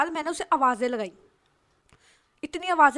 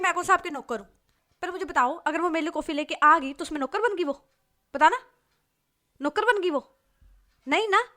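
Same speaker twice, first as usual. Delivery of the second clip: outraged complaint; 4 semitones higher, 4 dB louder than usual. Acted. Friend repeats rude reply, outraged.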